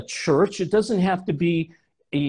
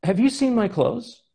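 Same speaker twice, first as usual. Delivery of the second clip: husband's voice; 7 semitones higher than usual. Retold or imitated. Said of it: "he would say".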